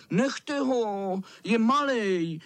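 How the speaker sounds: lightly voiced shouting children; children crying out. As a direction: call out to protect the little one. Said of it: "křičeli kluci".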